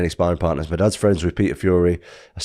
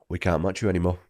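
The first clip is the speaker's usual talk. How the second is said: hushed quote; 7 dB quieter than usual. Retold or imitated. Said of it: "they were like".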